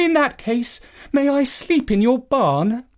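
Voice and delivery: imploring, begging tone. Narrator reads Finette answering the old lady's refusal, pleading. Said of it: "pleaded Finette".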